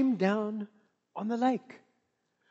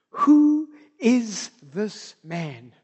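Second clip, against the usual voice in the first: awed; 2 semitones lower, 5 dB louder, much slower than usual. Acted. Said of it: "terrified and amazed".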